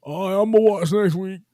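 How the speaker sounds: high, loud, eager exclamation; excited. Retold or imitated. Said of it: "I was like".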